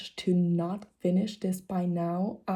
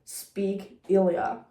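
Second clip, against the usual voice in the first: exasperated complaint; slower than usual. Retold or imitated. Exasperated retold complaint about casting.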